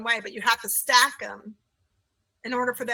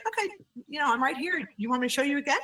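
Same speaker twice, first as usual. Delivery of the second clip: reassuring teacher; 5 semitones higher, faster than usual. Retold or imitated. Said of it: "And I'm like".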